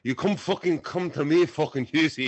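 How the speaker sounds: a mock Irish brogue, half-joking tough-guy threat; Irish accent attempt. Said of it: "it went Scottish".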